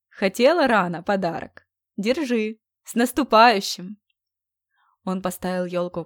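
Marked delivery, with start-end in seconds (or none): 0.1-4.0 cheerful shout. Acted. Friend hands over the tree.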